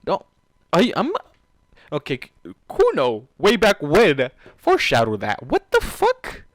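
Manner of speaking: loud, high disbelief building to a squeal; overwhelmed by the twist; stunned disbelief. Real, not acted. Gamer stunned by the foreshadowing payoff, loud disbelief. Reacting to plot twist in shock.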